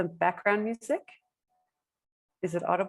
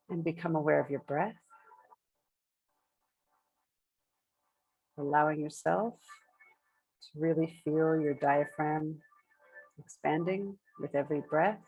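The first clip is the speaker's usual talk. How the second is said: unhurried meditation guidance with long pauses between phrases; measured phrases, spaced out for breathing; guided meditation. Acted. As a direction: guide the group gently into breath awareness, leaving space after each phrase.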